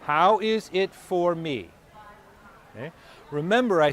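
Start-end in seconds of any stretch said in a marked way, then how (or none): 0.0-1.7 slow, reflective question. Shown as a demonstration. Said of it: "Five words that can change your life".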